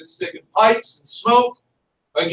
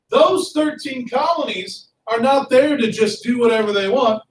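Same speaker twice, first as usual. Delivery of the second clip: lightly voiced displeased king; a touch of royal indignation; George the Third. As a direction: complain like a put-out ruler. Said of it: "George the Third and his buddies".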